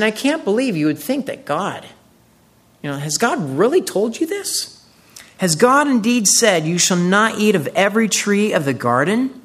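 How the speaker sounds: the serpent ridiculing Eve's faith; mocking disbelief. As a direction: scoff as if she were a fool to trust. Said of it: "So he's mocking God".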